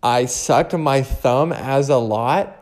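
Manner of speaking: slow, questioning replay of the slip; rereading own mistake in disbelief; puzzled repeat. Real, not acted. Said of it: "Wait, what did I say?".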